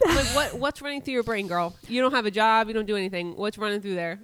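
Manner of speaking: loud, incredulous mock challenge; mock interrogation. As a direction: grill the influencer in mock outrage. Mock challenge of influencer's routine.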